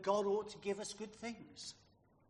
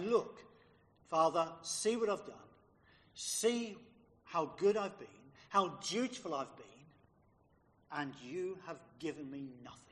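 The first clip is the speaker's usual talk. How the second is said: aggrieved; 2 semitones lower than usual. Acted. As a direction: demand to be noticed, then sulk. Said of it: "This elder son was saying".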